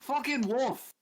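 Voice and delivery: high, loud correction; loud indignant shout. Acted. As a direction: yell it, offended. Claiming to be a wolf.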